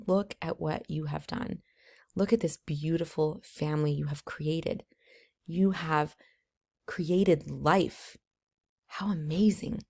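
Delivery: soft, gentle words to a new mother; tender reassurance. Retold or imitated. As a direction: speak softly, with quiet awe. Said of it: "I said".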